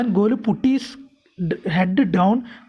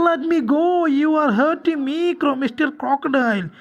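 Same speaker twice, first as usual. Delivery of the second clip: higher-pitched plea at ordinary volume; understated scream, pleading to be let go; mild mock scream; 4 semitones higher than usual. Golu begs the crocodile to let go, mild mock scream. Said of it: "screamed Golu".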